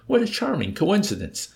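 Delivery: high-pitched, pleased exclamation; delighted. A narrator's reading. Old man enjoys the coincidence at Nately's expense, delighted. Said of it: "the old man with delight".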